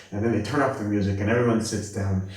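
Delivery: ordinary delivery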